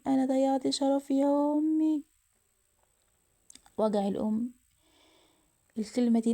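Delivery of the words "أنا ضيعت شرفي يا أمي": hammed-up crying despair, pitched up; tearful wail. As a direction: repeat the confession as a rising lament. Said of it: "غادة وقعت على الأرض تبكي".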